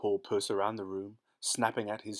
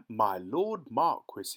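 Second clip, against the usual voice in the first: slow, surprised king; a touch of royal astonishment; exclaiming; 4 dB louder, slower than usual. Acted. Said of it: "he exclaimed".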